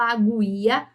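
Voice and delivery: "aguia" with the u sounded, a-gu-i-a; wrong pronunciation. Shown as a demonstration. Teacher showing how not to say it, "aguia" with a pronounced u. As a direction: voice the silent u in "aguia". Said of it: "Veja que eu não falo".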